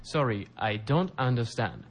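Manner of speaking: slow, careful teacher model line; slow model read. Shown as a demonstration. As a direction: say it slowly for learners to repeat. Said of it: "皆さんも一緒にリピートしてください".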